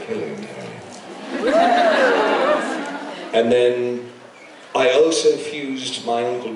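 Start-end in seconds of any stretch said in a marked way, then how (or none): 0.0-1.4 much lower and softer, slow; deep, slow, charming posh English; low suave British hello. Retold or imitated. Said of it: "other times you're like". 1.4-3.3 1 laughing. Real, not acted. Laughing after his voice.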